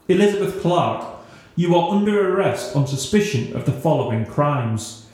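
official monotone recital. Acted. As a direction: recite it like reading charges. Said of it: "recited in a monotone voice".

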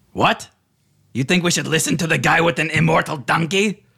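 high, rising disbelief; high-pitched, scoffing astonishment; incredulous. Acted. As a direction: question the underling as if he's absurd. Leader turns on his underling, incredulous.

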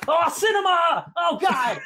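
high, loud, drawn-out squeal of delight; shrieking "cinema" in rapture; ecstatic cinema cry. Retold or imitated. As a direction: gush like a thrilled film fan. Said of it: "And I'm like".

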